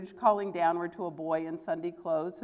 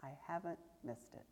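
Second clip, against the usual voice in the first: to himself; 3 semitones lower, 15 dB quieter, faster than usual. A narrator's reading. Scrooge whispering to himself in hushed wonder. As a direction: breathe it to yourself in wonder. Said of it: "said Scrooge to himself".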